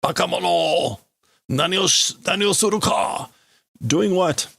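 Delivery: yelling. Acted. Man yelling at the admiral, mock outrage. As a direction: act out an outraged scolding. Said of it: "this guy yelling at the admiral".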